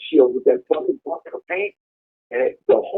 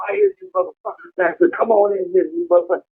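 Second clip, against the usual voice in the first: raised, high-pitched mock threat through a steel door; taunting yell; 3 semitones higher than usual. Taunting the guards sneaking in the back, high yell. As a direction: call out to scare them off.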